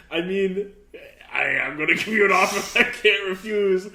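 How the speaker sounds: hammed-up mafia boss making his threat; Italian mobster. Host improvises a random mobster for a friend, hammed-up Italian mobster. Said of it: "random Italian mobster".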